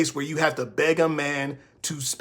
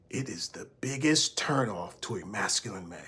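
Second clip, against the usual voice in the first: whisper; 7 semitones lower, 9 dB quieter than usual. Real, not acted. Confiding aside to viewers.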